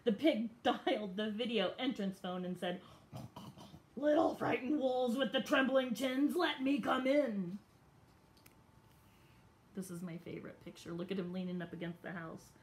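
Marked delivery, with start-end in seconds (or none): 4.0-7.6 sly pig voice. Acted. Pig sweet-talking at the door.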